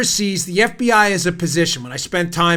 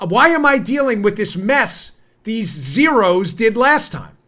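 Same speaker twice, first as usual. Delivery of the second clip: mock exasperation, slightly raised pitch; exasperated complaint; 3 semitones higher, 3 dB louder, slower than usual. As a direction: voice an imagined politician's fed-up protest. Acted quote of weary foreign politicians.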